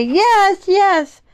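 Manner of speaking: high, loud cheer of eager agreement; excited yes. Pretend. Answers own question with eager yes.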